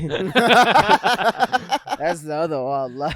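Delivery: slow, laughing punchline. Real, not acted. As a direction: laugh through the joke. Joke about naked photo.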